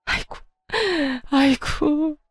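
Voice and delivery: high, hammed-up wail; fake wailing. Mother-in-law playing victim to her son, mock wail. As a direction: cry out theatrically to win sympathy. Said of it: "곡소리를 내기 시작하더군요".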